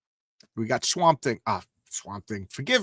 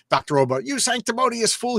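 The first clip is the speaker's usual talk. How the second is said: hammed-up villain line, pitched up; quoting his own dialogue; 8 semitones higher than usual. Reading his comic's line back to the reviewer, mock grand. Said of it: "he brought it up, like".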